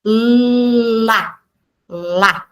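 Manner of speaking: sounds of lá drawn out and joined; teacher modelling synthesis; phonics blending demo. Shown as a demonstration. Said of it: "dessa síntese fonêmica".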